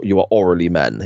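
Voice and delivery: "orally" said for O'Reilly; quoting the botched name as "orally"; mispronounced O'Reilly. Retold or imitated. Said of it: "'cause he can't pronounce O'Reilly".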